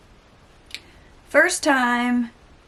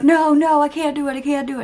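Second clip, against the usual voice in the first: mock panic, higher and louder at the start; panicky refusal; 7 semitones higher, 5 dB louder, faster than usual. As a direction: imitate the son freaking out. Son panicking over earring.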